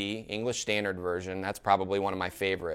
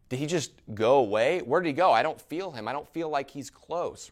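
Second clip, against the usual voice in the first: plaintive questioning; 4 semitones higher than usual. Acted. Voices the psalmist's anguished questioning.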